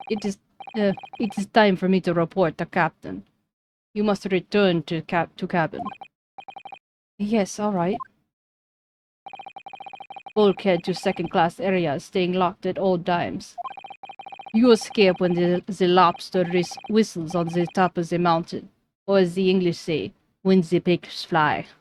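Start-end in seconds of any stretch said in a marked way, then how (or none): 0.1-5.8 put-on stiff Russian accent. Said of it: "Russian accent". 10.3-21.7 put-on slow Russian accent; slow, deadpan Russian sailor. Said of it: "Russian accent".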